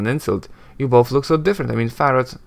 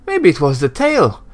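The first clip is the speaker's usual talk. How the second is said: sarcastic sneer; 3 semitones higher, 3 dB louder than usual. Acted. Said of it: "sneers sarcastically".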